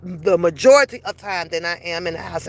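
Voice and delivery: ordinary talk, nothing marked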